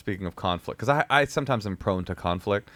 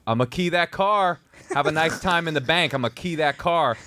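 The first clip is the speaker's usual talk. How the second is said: raised, snarling threat across the street; menacing threat; 6 semitones higher than usual. Retold or imitated. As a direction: threaten her like a thug. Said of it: "I said it exactly like this".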